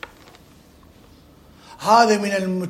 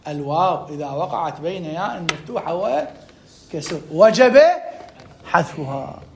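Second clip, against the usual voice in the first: slow but more flowing recital; repeated rule; 2 semitones lower, slower than usual. Shown as a demonstration. Teacher repeating the rule for students, measured recital. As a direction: repeat it steadily, lifting before the last word. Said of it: "أكررها لك".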